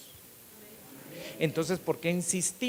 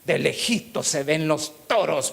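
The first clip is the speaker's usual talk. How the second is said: louder, slow wry brush-off; mock-cautious listener; 2 semitones higher, 7 dB louder, much slower than usual. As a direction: play the wary believer keeping his distance. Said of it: "Y usted". (imitando al oyente desconfiado, lento y más fuerte)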